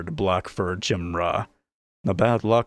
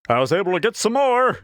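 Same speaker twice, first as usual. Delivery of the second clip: big booming voice, higher and louder; 12 semitones higher, 5 dB louder, faster than usual. A narrator's reading. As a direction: boom it out across the tavern. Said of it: "he boomed".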